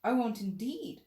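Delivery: high, loud, slow earnest promise; hasty promise. Acted. Alice hurriedly promising the mouse, high and loud. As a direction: promise quickly to smooth it over.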